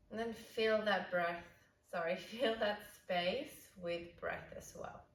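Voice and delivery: calm, unhurried yoga guidance with long pauses; guided meditation. Real, not acted. Yoga teacher settling the class into breathwork, calm guided meditation. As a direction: ease them into noticing the breath.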